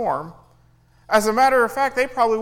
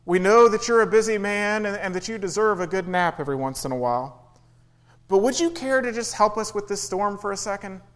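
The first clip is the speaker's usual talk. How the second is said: mock gentle politeness. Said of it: "They don't wake him up very gently".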